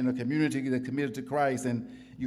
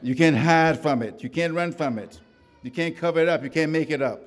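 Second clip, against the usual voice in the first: sermon litany; 2 semitones higher than usual. Acted. Preaching litany.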